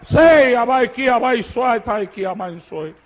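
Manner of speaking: fading, murmured tongues; speaking in tongues. Real, not acted. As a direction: let the tongues trail off into a hush. Speaking in tongues after climax. (hablando en lenguas)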